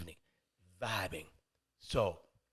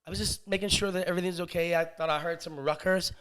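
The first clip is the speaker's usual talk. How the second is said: a slightly raised, tentative voice; hesitant neighbor; 2 semitones higher, 5 dB louder than usual. Acted. Neighbor explaining his visit, mildly hesitant.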